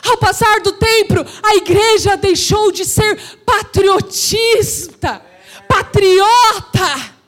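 impassioned pulpit declamation; full-force preaching. Real, not acted. Preacher decrying a church that negotiates heaven, fervent and forceful. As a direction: hammer each phrase, building to a shouted climax.

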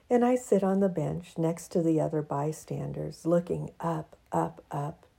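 expressive reading of her own essay; reading her piece. Acted. To her audience, reading her written piece aloud. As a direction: read it like spoken-word prose.

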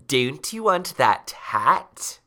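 slow, drawn-out tempting voice; slow creepy coaxing. Acted. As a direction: lure him slowly. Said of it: "And Scott".

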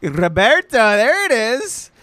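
Roberto with a trilled Spanish r; rolled r. Shown as a demonstration. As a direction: roll the r in Roberto hard, Spanish style. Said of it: "I'm rolling R's today".

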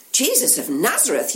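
a touch of rising eagerness; catching excitement. Acted. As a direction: warm to the name. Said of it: "you say, catching the excitement".

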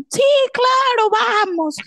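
squeaky reluctant yes from a scared mother; mock nervous mom. Mother pretending to be brave: high, hesitant yes. Mother agreeing, not to embarrass.

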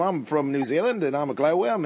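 put-on lightly done Kiwi accent; New Zealand accent. Scene: puppet introduces itself to his son, New Zealand accent. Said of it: "I've been doing a New Zealand accent".

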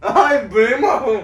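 a hammed-up happy greeting; playful cry of recognition; mock cousin greeting. Teasing about being cousins.

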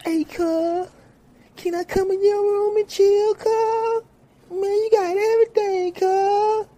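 put-on very high, pleading little-kid voice; whiny kid cousin. Little cousin begging to chill in his room, squeaky high kid voice.

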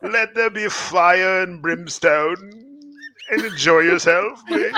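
slow, hammed-up stage pronouncement; mock grand proclamation. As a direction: proclaim it slowly like a pompous host. Feeding him a grandiose stage opening.

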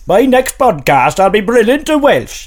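hammed-up amateur Welsh boast; Welsh accent. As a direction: push the Welsh lilt up as you go. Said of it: "It's a Welsh accent".

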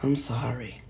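whispered, barely there sorry; a small boy mumbling to his mother; mumbled apology. A narrator's reading. Boy mumbling sorry to angry mother. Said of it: "I mumbled".

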